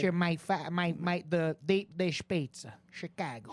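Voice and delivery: low Chicago accent, drawn out; slow, low Chicago drawl. Shown as a demonstration. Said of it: "I'll teach you all how to do Sebastian".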